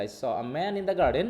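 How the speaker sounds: "man" and "garden" drawn out slowly; slow, weighted example sentence; focus stress. Shown as a demonstration. Teacher shows where the focus goes, slow stressed delivery. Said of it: "সটাকে আমি slowly বলছি".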